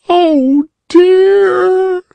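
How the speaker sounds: put-on high, loud sobbing little girl. A narrator's reading. Polly Flinders sobbing among the cinders, high and tearful. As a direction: wail it out like a crying child. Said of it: "sobbed Polly Flinders".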